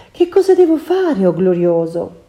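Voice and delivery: bow to his command; submissive sorceress. Acted. Circe submits meekly.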